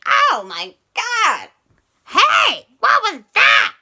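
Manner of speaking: high, loud startled cry. Acted. Jason the Egg nearly capsized by the sub, high startled shout. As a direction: yelp in shock at the sudden splash. Boat nearly knocked over.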